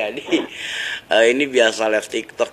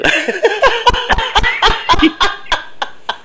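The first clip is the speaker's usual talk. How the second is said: long, loud, high laugh; 5 dB louder than usual. Real, not acted. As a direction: crack up completely. Host laughs at banter. (tertawa terbahak-bahak)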